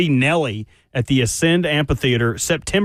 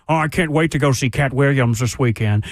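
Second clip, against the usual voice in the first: lower, goofy mocking imitation; goober voice; 5 semitones lower than usual. Co-host mimicking a colleague on talkback, mock goober. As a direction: mimic a clueless goober, pitched down. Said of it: "this goober alert".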